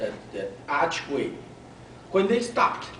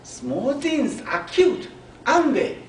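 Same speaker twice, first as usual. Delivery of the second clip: put-on little girl's voice; 10 semitones higher, 3 dB louder than usual. Girl asks her mom.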